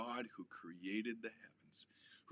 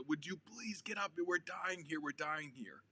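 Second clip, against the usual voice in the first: panicked plea; 6 semitones higher than usual. Acted. Disciples wake Jesus in storm.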